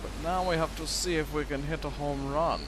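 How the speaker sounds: a slip into a vaguely German accent; lightly accented, almost German; unplanned accent creeping in; odd accent. Real, not acted. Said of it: "I don't know where that accent came from".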